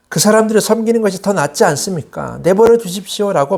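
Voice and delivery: retold pleading complaint; resentful complaint. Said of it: "모세를 원망했어요".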